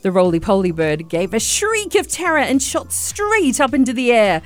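lively read-aloud narration; story narration. Acted. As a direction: tell it like reading to a child.

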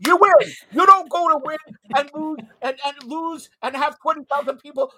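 loud, high, heated coach rant; fired-up shout. Real, not acted. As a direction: bellow it like a fed-up coach. Host rants about winning as coach.

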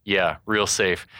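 slow, dry sarcasm; sarcastic. Retold or imitated. Ryu answering Ken in the crowd, sarcastic. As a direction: say it slowly, mock-reassured. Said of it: "Ryu sarcastically says".

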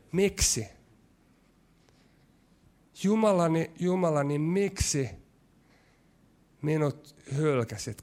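urgent, emphatic cry of forsakenness; voicing Jesus' cry. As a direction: lift "Jumalani" with a touch of anguish. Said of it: "Mitä hän huutaa?". (Jeesuksen huuto, painokkaasti)

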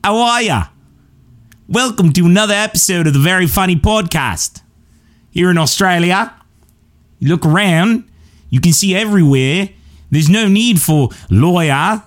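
put-on high-pitched, botched Aussie accent; Australian accent. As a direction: put on a hammy Australian podcast-host voice. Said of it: "do the accent really well".

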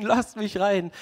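lasst mich rein said again with a laugh, back at normal volume; laughing repeat. Retold or imitated. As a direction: echo the plea, laughing it off. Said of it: "Petrus klopft weiter".

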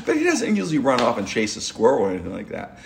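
can barely get it out for laughing; giggling while telling the story; laughing through it. Real, not acted.

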